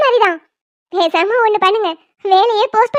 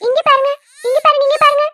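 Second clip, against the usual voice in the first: put-on higher, repetitive baby-talk coaxing; 4 semitones higher than usual. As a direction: get the crying baby's attention. Distracting a crying baby.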